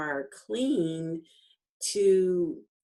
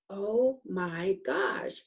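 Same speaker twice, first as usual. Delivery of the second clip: stunned realization; 3 semitones higher, slower than usual. Retold or imitated. Acts out realisation sinking in.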